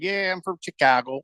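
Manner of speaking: light Chicago accent imitation; a touch of Midwestern twang. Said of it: "a little bit of Midwest there".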